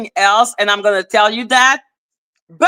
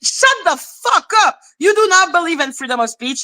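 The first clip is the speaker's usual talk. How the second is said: angry yell; 4 semitones higher than usual. Real, not acted. Yelling at rival.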